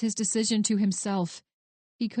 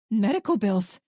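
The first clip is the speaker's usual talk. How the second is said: incredulous echo; 4 dB louder than usual. Acted. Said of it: "she echoed".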